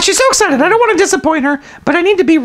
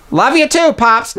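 daughter's voice; slower than usual. Shown as a demonstration. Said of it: "Can we do that again".

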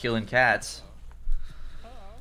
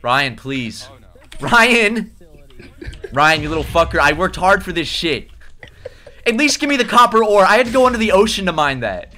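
possessive whining; 4 semitones higher, 4 dB louder than usual. Real, not acted. Begging teammate to return items.

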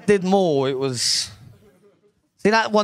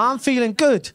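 feeling good; 9 semitones higher than usual. Retold or imitated. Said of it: "I'm like".

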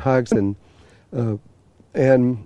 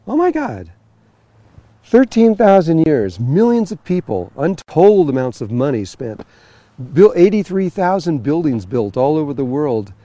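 higher-pitched, mildly exasperated recollection; dismayed disbelief; 3 semitones higher than usual. Retold or imitated. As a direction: act out reeling at the wasted effort. Acts out his dismayed reaction.

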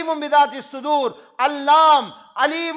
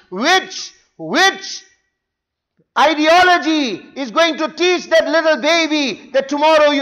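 forceful, rising preacher's tirade; indignant rebuke. Real, not acted. Preacher scolding the mothers and youth of the ummah, indignant.

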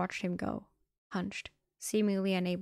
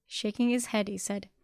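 ordinary delivery

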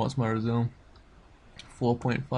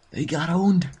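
louder, higher gloat; 5 semitones higher, 8 dB louder than usual. Real, not acted. Gamer gloating over killed enemies, louder. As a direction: crow it out.

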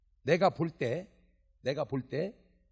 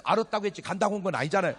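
smug retort; 3 semitones higher, 6 dB louder, much faster than usual. Retold or imitated. Local's retort.

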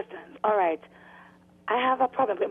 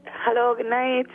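speaking up; 2 semitones higher, slower than usual. Real, not acted. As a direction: project the voice for the mic. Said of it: "could you talk up a little bit".

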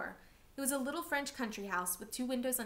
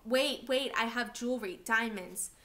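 hysterical pleading; 5 dB louder, slower than usual. Acted. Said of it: "Joseph's mother became hysterical".

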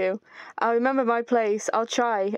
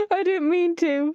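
mock crying; 6 semitones higher, slower than usual. Player regretting her mean choice.

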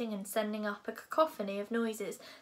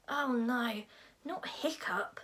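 dismayed groan, pitched up and fading; slower than usual. A narrator's reading. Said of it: "groaned Dog's Breath the Durbrain".

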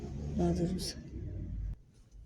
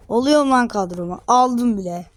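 excited; 3 semitones higher, 6 dB louder than usual. Real, not acted. Signing a player to his squad.

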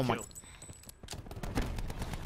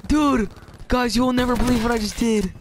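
excited announcement; 5 semitones higher, 3 dB louder than usual. Real, not acted.

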